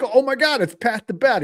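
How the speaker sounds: high, gushing mock fan squeal; mock starstruck fan. Friend spotting Pat Burrell in a bar, high mock gushing.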